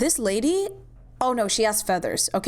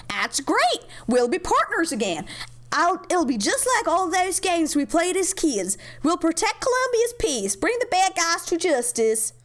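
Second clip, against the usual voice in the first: put-on American accent, climbing higher; 6 semitones higher than usual. British officer recalls playing cops as kids, in American accent. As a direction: do an American accent with a lifted pitch. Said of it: "she's gonna do an American accent".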